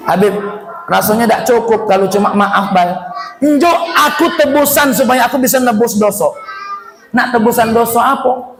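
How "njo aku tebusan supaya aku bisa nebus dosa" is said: begging for penance. Retold or imitated. Sinner begs for penance. (mohon tebusan dosa dengan suara keras)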